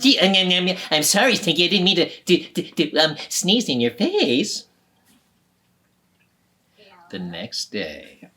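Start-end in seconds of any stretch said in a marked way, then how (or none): 0.0-4.6 stammering apology. Acted. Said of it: "And Dylan said".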